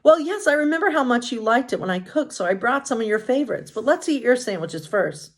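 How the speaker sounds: gentle, kind princess; Snow White. Acted.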